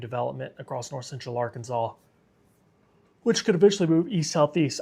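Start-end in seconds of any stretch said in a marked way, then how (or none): 3.2-4.8 words stretched through a yawn. Real, not acted. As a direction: talk while yawning. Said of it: "I'm sorry for yawning".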